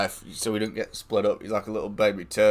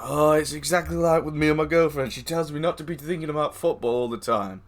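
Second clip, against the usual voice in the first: imitating the guy; 5 semitones higher than usual. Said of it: "He's like".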